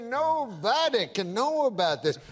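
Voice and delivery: imitated Southern prospector accent; crazy old-timer accent. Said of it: "accent is crazy".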